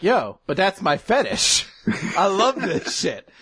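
mock lecherous glee; slow delighted Ban. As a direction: savor it like a guilty pleasure. Ban delighted by snake form.

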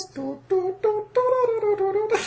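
mock-stately hummed fanfare; hummed theme tune. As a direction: hum a pompous theme tune. I just want Masterpiece Theater to be playing.

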